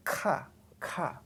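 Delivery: "ka" with the throat briefly closed, tense and breathless. Shown as a demonstration. Teacher demonstrates the throat-closed "ka". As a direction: catch the throat, then release "ka". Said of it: "This is throat sound".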